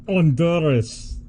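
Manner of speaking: playful mock Latino pronunciation; Latin accent. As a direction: put on a poor Latin accent. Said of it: "my Latin accent".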